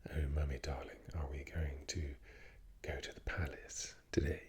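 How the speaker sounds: lightly voiced posh royal; King Charles. Impressionist as a royal asking mother about the palace, posh. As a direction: put on a posh royal English accent. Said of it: "make it really posh".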